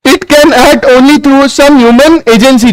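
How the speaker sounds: slow, word by word for note taking; dictating pace; slow dictation. Shown as a demonstration. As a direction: spell it out slowly so they can write. Dictating to students.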